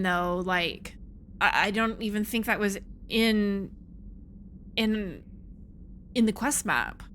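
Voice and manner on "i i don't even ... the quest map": halting, repeating words as you go; stammering. Real, not acted. Gamer unsure what is in the quest map, stammering. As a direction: stammer uncertainly, with pauses mid-sentence. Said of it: "I'm over here stammering".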